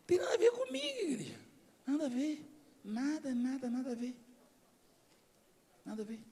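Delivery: soft, repeated mock protest; quiet denial. Pastor brushes off the deputy's praise, quiet mock denial. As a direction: keep denying it under your breath.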